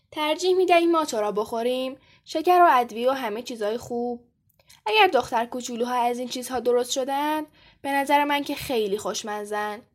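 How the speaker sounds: mildly sugary goblin taunt; understated syrupy menace; sweet tone. A narrator's reading. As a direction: coax with a touch of false sweetness. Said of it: "بختک با لحن شیرینی گفت".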